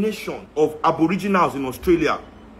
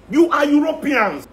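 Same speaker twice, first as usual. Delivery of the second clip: loud and high through a laugh; laughing shout; 8 semitones higher, 3 dB louder than usual. Real, not acted. Laughing loudly as he shouts down the caller.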